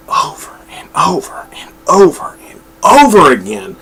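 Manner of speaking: exasperated repetition. Real, not acted. Reviewer fed up with a repeated number, exasperated. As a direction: hammer each 'over' with mounting exasperation.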